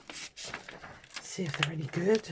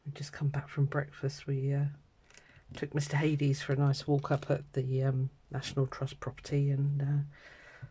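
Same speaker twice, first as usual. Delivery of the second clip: croaky throat. Real, not acted. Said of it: "Excuse my croaky throat".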